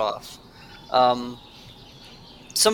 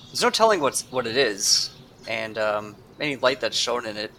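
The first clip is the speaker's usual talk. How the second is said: ordinary delivery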